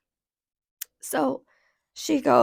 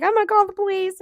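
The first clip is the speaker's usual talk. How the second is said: high, louder mock panic; mock freak-out; 8 semitones higher, 6 dB louder than usual. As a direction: imitate her freaking out, pitched up. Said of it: "she's, like, freaking out on me".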